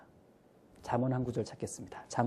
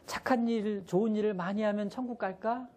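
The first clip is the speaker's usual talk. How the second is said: much higher coaxing teacher voice; higher teacher voice to little kids; teacher asking kids; 9 semitones higher than usual. Retold or imitated. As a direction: ask sweetly like a kindergarten teacher. Teacher asks kindergarteners.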